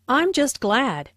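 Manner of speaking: glad said with extra weight; emphasis lands on glad; stress on glad. Shown as a demonstration. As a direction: lean into the word glad. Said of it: "Notice the stress on glad".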